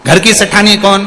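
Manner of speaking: high, loud furious scolding; angry scolding. Acted. Mother-in-law berates daughter-in-law for refusing alms, loud and angry. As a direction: tear into her for turning the monk away.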